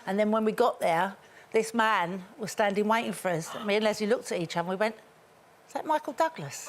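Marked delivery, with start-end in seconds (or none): 5.7-6.7 stunned whisper. Retold or imitated. Star-struck gasp at celebrity.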